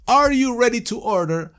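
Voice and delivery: a waiter asking the table. Shown as a demonstration. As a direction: play the server at the table. Waiter voice demo.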